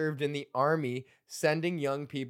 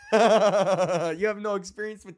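laughing through the words, slowly; cracking himself up mid-rant; laughing while ranting; 5 semitones higher, 6 dB louder, slower than usual. Real, not acted. Laughing at his own old bit while ranting.

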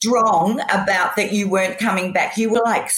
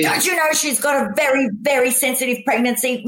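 higher, exasperated protest; mock-scold the other girls; annoyed outburst; 6 semitones higher than usual. Defending her pregnant friend from the other girls, exasperated. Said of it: "Sometimes I got so annoyed".

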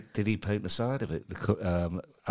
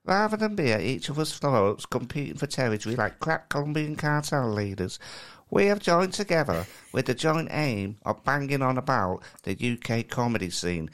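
put-on Kai's accent. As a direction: read it as the co-host, mincy West Country. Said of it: "like a West Country Alan Bennett".

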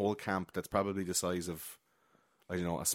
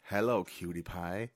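quoted greeting; 2 semitones lower, 4 dB quieter, slower than usual. Retold or imitated. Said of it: "it's like".

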